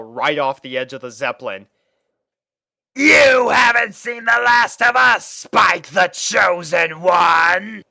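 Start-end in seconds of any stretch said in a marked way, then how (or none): 2.9-7.8 high, loud villain's parting shout; yelled. Acted. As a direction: yell it as you fall away. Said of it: "he yelled".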